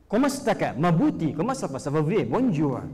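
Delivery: put-on light French accent greeting. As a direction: chat like a native French speaker, lightly. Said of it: "Bahasa Prancis". (logat Prancis ringan)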